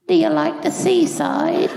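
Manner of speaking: mock cheerful small talk; chirpy nurse. Nurse chatting brightly to the screaming patient, sing-song. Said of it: "the nurse goes".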